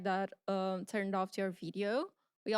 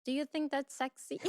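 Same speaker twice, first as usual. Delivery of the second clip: mock Russian accent; 4 semitones higher than usual. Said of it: "She pointed at the shoes and she's like".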